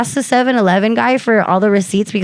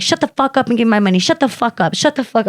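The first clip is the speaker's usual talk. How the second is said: fast, mildly heated cursing; retold cussing-out; 3 semitones higher, faster than usual. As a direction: cut him off with rapid repeated swearing. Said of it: "I was so pissed. And I was just, like, cussing him out".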